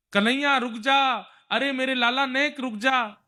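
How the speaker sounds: high, pleading mother's call; acted anxious plea to stop; distraught calling out. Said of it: "यशोदा मैया व्याकुल हुई".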